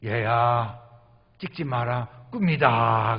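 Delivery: a hint of a deep, solemn voice from above; lightly voiced divine command; God speaking gently but firmly. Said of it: "음성이 들리는 거예요".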